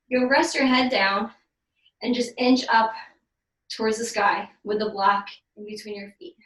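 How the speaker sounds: talking out of breath during crunches; breathless, pushing through the effort. Real, not acted. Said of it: "I'm probably gonna get out of breath".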